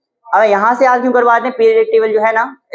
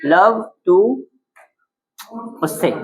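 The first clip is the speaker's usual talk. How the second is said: word-by-word dictation; slower than usual. Shown as a demonstration. Finishing the dictated mnemonic.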